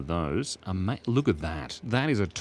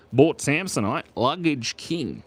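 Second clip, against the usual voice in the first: Australian ad voice, Bort said louder; a mock Australian luggage ad, the last words slow; 6 semitones higher, 5 dB louder, slower than usual. Shown as a demonstration. A streamer mock-announces a luggage king in Australian accent. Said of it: "But in Australian, you say Bort".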